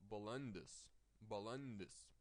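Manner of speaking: balendis with the stress on the L-E-N syllable; teacher showing stress in balendis. Shown as a demonstration. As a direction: lean on the n of balendis. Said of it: "the stress is on the consonant".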